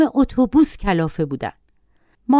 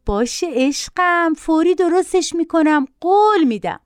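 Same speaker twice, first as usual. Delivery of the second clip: high-pitched, coaxing promise; lightly voiced doting mother; placating mother; 7 semitones higher than usual. A narrator's reading. Mother promising her shrieking son a quick fix, placating.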